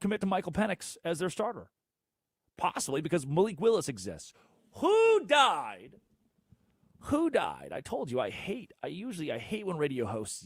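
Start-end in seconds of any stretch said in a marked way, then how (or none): 4.7-5.9 loud, high yelled question; sudden outraged yell. Real, not acted. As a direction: shout it like an angry radio host. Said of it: "Sorry for yelling".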